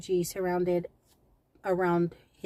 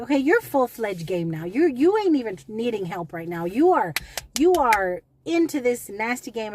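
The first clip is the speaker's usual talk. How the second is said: louder, firm scolding; retold confrontation; 5 dB louder than usual. Worker scolding the prank caller, firm and loud. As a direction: tell him off, voice rising on "you are".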